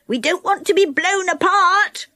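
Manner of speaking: high-pitched urgent call; anxious calling. A narrator's reading. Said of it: "called Moonface".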